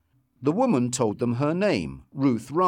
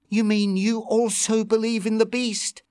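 surprised; 10 semitones higher than usual. Acted. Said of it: "asked Lucy in surprise".

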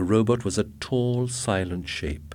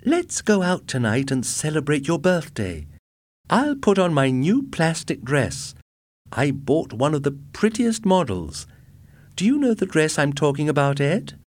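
high, eager and bubbly; thrilled about her new dress; excited young wife; 8 semitones higher, 4 dB louder than usual. A narrator's reading. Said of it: "She jumped up excitedly".

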